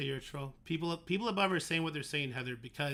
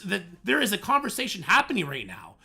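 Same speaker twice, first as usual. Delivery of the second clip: high, loud and incredulous; exasperated rant; 5 semitones higher, 5 dB louder than usual. Real, not acted. Streamer defending himself to chat, exasperated rant. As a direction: argue heatedly, pitch and volume up.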